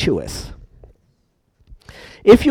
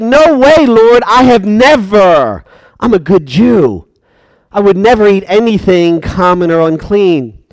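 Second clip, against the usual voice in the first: protesting Peter. Acted. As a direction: refuse like an offended good Jew.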